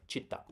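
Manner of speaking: città with the last "ta" stressed; final-syllable stress. Shown as a demonstration. Teacher repeating the word after its translation, final-syllable stress. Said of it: "but it's città".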